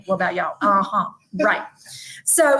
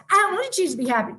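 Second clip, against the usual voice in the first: put-on toddler whine; 7 semitones higher, much faster than usual. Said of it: "telling me every day".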